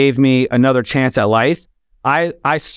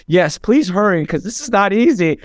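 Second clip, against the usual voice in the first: urgent plea; 6 semitones higher than usual. Retold or imitated. Retold plea to pastor on phone.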